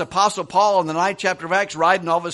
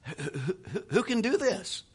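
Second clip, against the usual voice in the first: laughing; 3 semitones higher, 7 dB quieter, slower than usual. Real, not acted. Marvels at his father's change.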